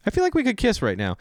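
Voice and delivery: high, teasing mock surprise; mock flustered reply. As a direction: pretend to be thrown by the compliment. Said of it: "you're just like".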